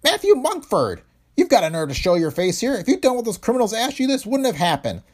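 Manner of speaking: high, loud accusing shout; violent anger. A narrator's reading. Owner blaming the insurance president, furious high shout. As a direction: lash out at him, pitch high throughout. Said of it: "Heron turned on the newcomer with angry violence".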